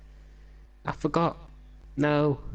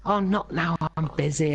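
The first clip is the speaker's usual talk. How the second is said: higher-pitched imitation of a busy scientist; mock harried brush-off; 5 semitones higher than usual. Malcolm putting off the Doctor's call, mock harried. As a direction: play the flustered brush-off, pitched up.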